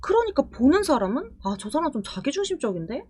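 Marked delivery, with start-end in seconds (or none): 1.5-3.0 thinking aloud. Retold or imitated. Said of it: "이런 생각이 들게 되고요".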